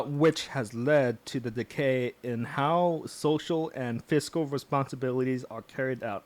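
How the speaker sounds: lightly put-on Southern accent. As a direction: keep a mild Southern accent while reading. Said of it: "I'm continuing with that southern accent".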